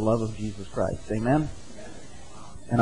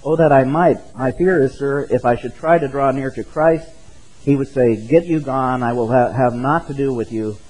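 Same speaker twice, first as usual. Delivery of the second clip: put-on lightly raised old-style preaching read aloud; sermon reading. Pastor reads Spurgeon's appeal to the congregation, a hint of old-style preaching.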